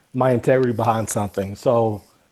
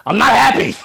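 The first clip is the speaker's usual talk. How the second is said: playful mock exchange; 8 semitones higher, 4 dB louder than usual. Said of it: "does that work the opposite".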